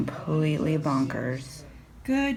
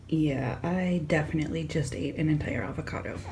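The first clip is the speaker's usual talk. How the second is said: guilty whisper; 5 dB quieter than usual. Real, not acted.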